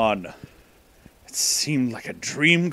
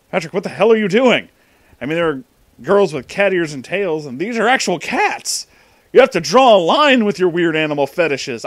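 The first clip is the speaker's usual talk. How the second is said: fast, louder and higher, exasperated; exasperated scolding; 4 semitones higher, 5 dB louder than usual. Acted. Anon yells at Patrick for petting the cats, exasperated and fast. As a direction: scold him in disbelief.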